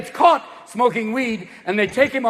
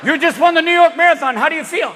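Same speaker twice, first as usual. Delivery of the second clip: excited reporter; 8 semitones higher, 5 dB louder than usual. Acted. Reporter interviews marathon winner.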